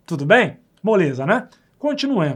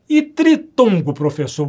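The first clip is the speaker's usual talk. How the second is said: student asking; 5 dB louder, slower than usual. Pretend. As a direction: play the eager student, slow. Teacher voices a student's question.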